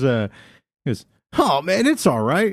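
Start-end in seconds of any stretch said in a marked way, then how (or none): 1.4-2.5 slow, slightly raised preppy voice; preppy guy, irritated. Retold or imitated. Drive-thru worker reassuring an irritated-looking customer, drawn-out preppy voice. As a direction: lightly imitate a preppy guy consoling. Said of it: "looked irritated when he goes".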